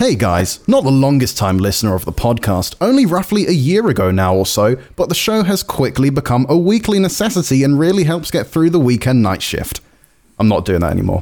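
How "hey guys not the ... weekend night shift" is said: cheery, sing-song announcer voiceover voice. Reading out a listener's podcast feedback on the show, in a happy voiceover voice.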